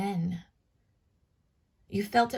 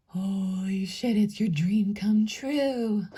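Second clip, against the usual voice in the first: awed whisper; 4 dB louder, slower than usual. Retold or imitated. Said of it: "It's just like".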